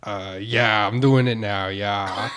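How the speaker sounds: put-on unconvincing Australian accent. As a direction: insist on a badly faked Australian accent. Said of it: "maybe Australian".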